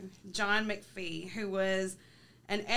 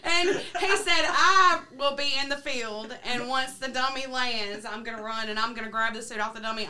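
laughing; 5 dB louder than usual. Real, not acted. Laughing while quoting plan.

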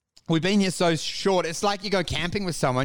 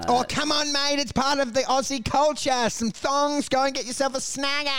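a lightly hammed-up Aussie coaxing, pitched higher; mock Aussie mate; 5 semitones higher than usual. Comic teasing his co-host about Aussie culture, lightly mock-matey. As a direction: put on a hint of a matey Aussie urging.

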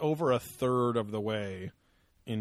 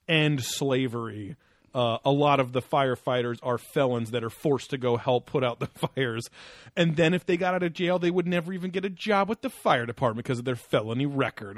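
mocking voice; 3 semitones higher, 3 dB louder than usual. Mocking a tweet he read.

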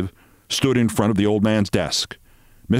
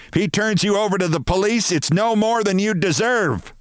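higher, indignant mock shout; 11 semitones higher than usual. A narrator's reading. Mrs Barrows storming into his office, mock shout. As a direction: fling it at him in outrage. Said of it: "she shouted".

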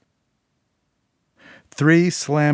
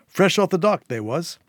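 a louder, higher street-hawker pitch; prattling fish seller; 6 semitones higher, 4 dB louder than usual. A narrator's reading. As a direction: sell the catch with cheap charm. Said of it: "He had prattled on".

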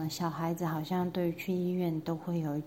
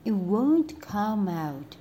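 calm doctor; slower than usual. Acted. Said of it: "said the doctor".

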